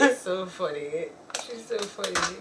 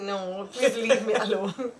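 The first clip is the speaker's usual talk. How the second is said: slow, pleading imitation through laughter; laughing mock plea; slower than usual. Imitating brotherly friend refusing a hug, laughing mock plea. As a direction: drag out the plea while laughing.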